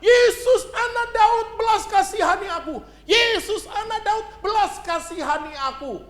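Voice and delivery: high, loud cry for mercy, fading on the last words; shouting plea. Acted. Blind Bartimaeus shouting to Jesus over the crowd, loud desperate cry. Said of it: "dengan teriak".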